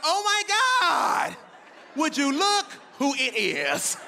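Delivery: a teacher thrilled to see the parent sneak in; overexcited teacher. Retold or imitated. Hammed-up delighted teacher greeting. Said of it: "She looked at me like".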